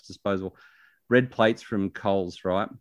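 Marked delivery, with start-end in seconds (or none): 0.0-0.6 air quotes. Real, not acted. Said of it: "I'm doing air quotes".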